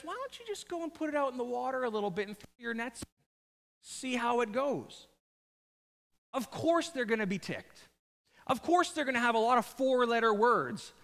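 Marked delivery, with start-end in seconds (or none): 0.0-5.1 quick, offhand suggestion, slowing at the end; casual suggestion. Retold or imitated. Uninvited teacher to fishermen in their boat, casually suggesting. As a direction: toss it out lightly, then draw out the last words. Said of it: "this teacher, shows up, hops down in a boat, uninvited, and says".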